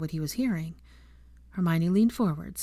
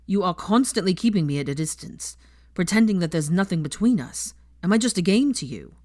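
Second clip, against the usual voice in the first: angry; 5 dB louder than usual. Acted. Draco's angry accusation continues.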